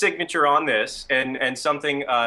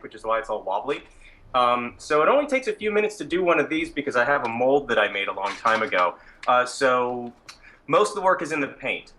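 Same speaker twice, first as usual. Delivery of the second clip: muffled behind a mask; talking through a mask; through a plague doctor mask. Real, not acted. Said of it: "can you hear me okay with the mask on".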